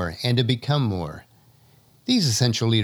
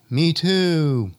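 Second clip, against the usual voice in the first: far-off echo of the call; 6 semitones higher, 4 dB louder than usual. Acted. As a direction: sound it like it bounces back. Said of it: "we hear back".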